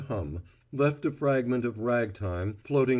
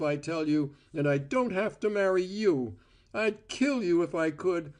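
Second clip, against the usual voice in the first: raised, furious tirade; rage; 8 semitones higher than usual. A narrator's reading. Cora raging at Val over his offer, a mild furious tirade. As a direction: pour out the anger in a rush. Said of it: "shaking with rage".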